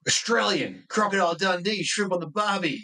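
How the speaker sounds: high-pitched mock recognition; imitated excited clerk. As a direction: rattle off clichés like a thrilled stranger. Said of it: "He's like".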